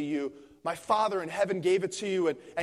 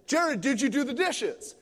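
knowing, loaded question; 5 semitones higher than usual. Retold or imitated. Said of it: "she would ask the same question walking from the kitchen".

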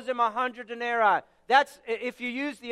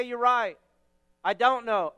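sincere agreement. Shown as a demonstration. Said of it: "what I'm likely to say".

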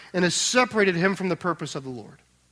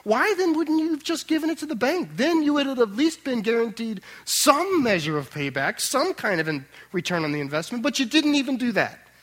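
a master scolding his servant, pitched up in exasperation; rebuking master; 3 semitones higher than usual. Acted. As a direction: confront the lazy servant with sharp indignation. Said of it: "So as to sound this way".

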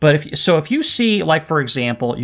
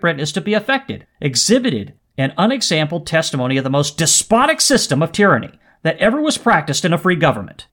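raised, emphatic oratory; impassioned letter reading; 3 semitones higher than usual. Acted. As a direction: read it like a statesman building his case. Reads Washington's letter aloud with passion.

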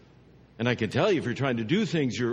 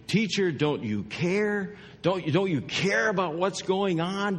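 higher, mildly exasperated appeal; frustrated pleading; 5 semitones higher than usual. Acted. Disciples appeal to their teacher in the storm, frustrated. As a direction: plead with a touch of frustration, stretching the key words. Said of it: "they get frustrated".

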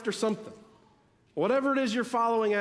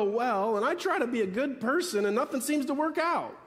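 whiny complaint; 3 semitones higher than usual. Retold or imitated. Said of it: "We do that, don't we?".

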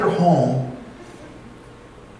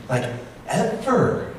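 laughing; 8 semitones higher, 4 dB quieter, much slower than usual. Real, not acted. Laughing about the crying baby.

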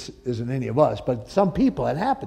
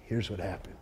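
very calm and much softer; calm explanation; 8 semitones lower, 14 dB quieter than usual. Retold or imitated. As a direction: settle everyone down gently. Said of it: "very calmly says".

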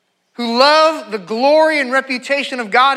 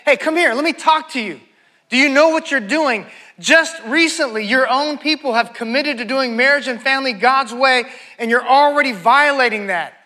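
imitated scolding; 3 semitones higher than usual. Nehemiah pulls intermarried people aside, imitated scolding. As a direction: take them aside like a mom with a child in trouble. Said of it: "she'd pull on your ear. That's what he was doing".

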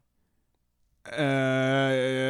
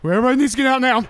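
shouting alarm; 9 semitones higher, 6 dB louder, much faster than usual. Retold or imitated. Retold alarm banging on doors.

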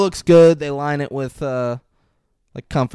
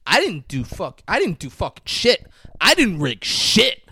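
insistent denial, each one more emphatic; indignant denial; 5 semitones higher, 5 dB louder than usual. Real, not acted. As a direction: protest it, pitch jumping higher. Accused of clicking, protests innocence.

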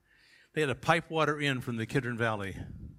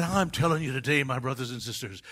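mock revival preacher; 2 semitones higher, 5 dB louder than usual. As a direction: start near your own voice, then blast the last line. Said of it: "But he said".

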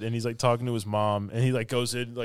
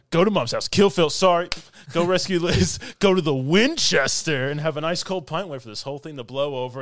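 higher, louder rundown, easing at the end; excited plan; 3 semitones higher, 4 dB louder than usual. Retold or imitated. Retelling the two friends' shared plan, excited. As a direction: rattle off the plan with mock gusto.

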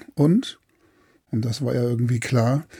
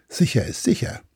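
whispered warning to the crew; whispering. Acted. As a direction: hush it to the pirates. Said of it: "flüsterte er den Piraten zu". (geflüstert)

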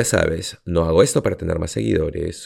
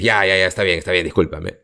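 lightly acted grudging apology, brushing it off; mock giving-in just to end the argument; dismissive fake apology. Someone fed up after an hour of fighting, mock dismissive. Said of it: "Si lo dices en ese tono".

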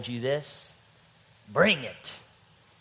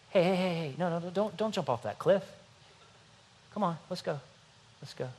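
put-on parent scolding child; 4 semitones higher, 4 dB quieter, faster than usual. Parent scolding child, acted example.

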